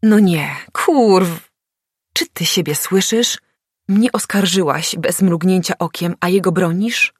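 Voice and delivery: loud, high reproach; reproachful. A narrator's reading. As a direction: throw it back at her. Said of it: "mówił z wyrzutem".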